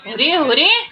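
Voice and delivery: high, loud laughing squeal. Real, not acted. Owner laughing as the pet licks her, squealing. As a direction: laugh out as it tickles.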